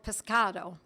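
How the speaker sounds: pescado with an Italian ring, crisp open vowels; Italian-sounding pescado, a slip; Italian accent. Shown as a demonstration. Teacher slips into an Italian accent on pescado. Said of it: "I actually said that with an Italian accent".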